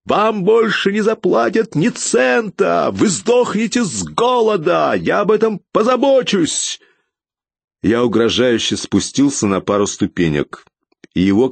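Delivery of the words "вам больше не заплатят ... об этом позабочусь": panicked, vengeful screaming; hysterical threats. A narrator's reading. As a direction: shriek threats from below. Fleeing official shrieks threats.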